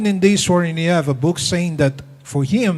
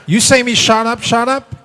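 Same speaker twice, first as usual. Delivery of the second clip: higher, louder indignant retort; mock indignant; 5 semitones higher, 4 dB louder than usual. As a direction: throw it back at him, offended. Angry wife retorts.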